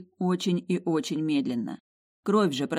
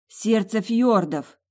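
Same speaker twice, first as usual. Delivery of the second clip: startled realisation; 5 semitones higher, 6 dB louder, much slower than usual. Acted. Sudden realisation.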